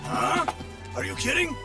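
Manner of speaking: startled, rising questions; incredulous. Acted. Officer hearing that the lord has left, incredulous. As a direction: react in disbelief to the news.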